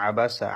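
আবাসা with short vowels, no drawn-out sound; no elongation. Shown as a demonstration. Teacher shows students no stretch here, short-vowelled আবাসা. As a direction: say আবাসা without stretching any syllable. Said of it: "এখানে টান হবে না".

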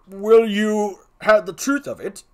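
forceful character voice; second clown. Acted. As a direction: confide the truth as a comic gravedigger.

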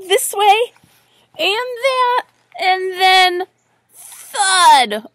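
high, loud suspense, then booming thud; building to a thud. A narrator's reading. Reader acts the duck's wobble and fall, building. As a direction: hold it up high, then drop hard on the sound word.

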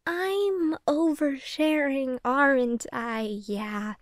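slow, drawn-out admission; awkwardly slow, trailing into quiet; sheepish realization. Acted. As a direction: stretch the words, sinking and fading to a small yeah. Realizes she has said too much.

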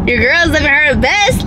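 a burp while speaking. Real, not acted. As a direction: talk through a burp. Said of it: "I'm burping".

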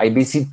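"visit" with a forced extra T at the end; pronunciación forzada. Shown as a demonstration. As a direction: overdo the final T of "visit". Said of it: "eso no es natural". ("visit" con T final forzada, poco natural)

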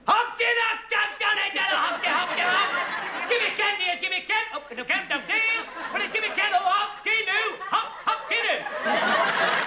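high, hammed-up Scottish ad patter; mock Scottish commercial, sung out high; Scottish accent. Comic sidekick doing his ad in a Scottish accent. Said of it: "the commercial in the, uh, Scottish accent".

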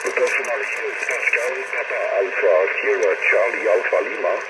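crackly military radio. Real, not acted. Distant station heard over radio.

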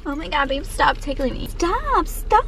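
laughing. Pretend. Playful tickle protest, laughing.

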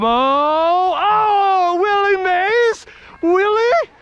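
high, drawn out cry; amazed. Real, not acted. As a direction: marvel at it. Amazed at catch.

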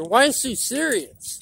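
slow, drawn-out movie quote; lightly voiced taunting villain line; the Joker. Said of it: "To put in the words of the Joker".

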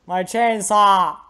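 high, loud, slow lament; drawn-out cry of dismay; anguished shout. Real, not acted. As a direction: wail it out at full volume. Shouting over a loss in game.

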